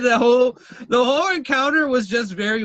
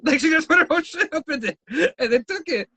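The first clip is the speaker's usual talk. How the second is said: laughing disbelief; 8 semitones higher, faster than usual. Real, not acted. Retelling the silverware theft, laughing.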